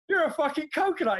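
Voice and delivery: said flat the first time; calmly calls him a coconut; retold insult. Telling the barber, first time, level insult. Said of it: "I went".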